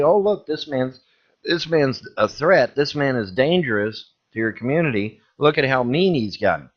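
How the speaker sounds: high, whiny mock of the harassers; hammed-up tattletale voice; mocking troll voice. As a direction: sneer it like a smug troll tattling. Mocking the trolls' report to police.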